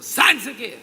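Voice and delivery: loud, sudden deliverance command; commanding pastor. Retold or imitated. Pastor at her ear during deliverance, commanding. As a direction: imitate a pastor ordering loudly into an ear. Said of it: "chegou no meu ouvido e falou".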